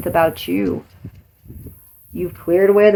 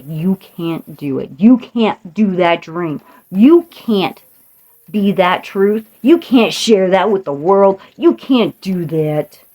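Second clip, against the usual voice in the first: mock naysayer taunt; slower than usual. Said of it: "When I say".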